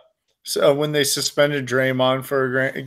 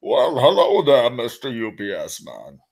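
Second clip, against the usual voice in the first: low cartoon echo, fading softer; Randy from South Park; 6 semitones lower, 3 dB quieter than usual. Friend echoing the South Park line, low Randy impression. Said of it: "From South Park, Randy".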